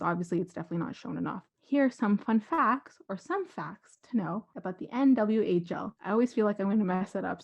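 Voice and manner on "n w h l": careful letter-by-letter reading; deliberate, separated letters; very slow. Real, not acted. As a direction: spell it out slowly so as not to slip. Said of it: "so I'm saying it very slowly".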